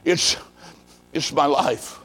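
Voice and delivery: weak, halting, low and fading; rasping whisper. Retold or imitated. Dying man refusing a drink from his visitor, faint halting whisper. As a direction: struggle out broken words under your breath. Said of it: "just a whisper".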